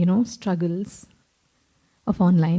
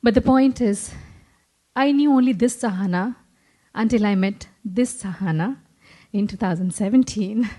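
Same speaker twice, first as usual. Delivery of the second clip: trembling voice. Real, not acted. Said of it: "my voice is trembling because I'm emotional".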